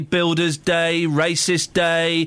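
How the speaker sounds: very slow, drawn-out list; mock agreement. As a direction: reel off each day with slow mock approval. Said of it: "the true me's going".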